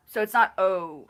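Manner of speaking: O with an American glide. Shown as a demonstration. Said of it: "like an American".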